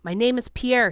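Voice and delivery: loud, high angry shout; called out. A narrator's reading. Pierre punching Beloit, furious shout. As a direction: hit back with the words. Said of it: "he called".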